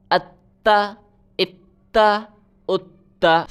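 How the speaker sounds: اتا with the ت held and pressed; doubled letter. Shown as a demonstration. Teacher drilling the doubled ت in اتا for pupils. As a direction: pause slightly on the doubled ت in اتا. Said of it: "سختی کے ساتھ ذرا رک کر".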